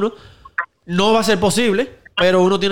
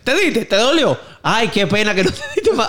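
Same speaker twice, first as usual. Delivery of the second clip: mock sympathy; 4 semitones higher than usual. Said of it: "Yo le digo así".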